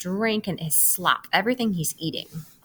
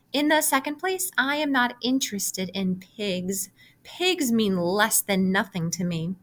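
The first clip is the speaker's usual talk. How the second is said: a prim little lamb turning him down; a hint of a snooty lamb. Lamb refusing Wilbur.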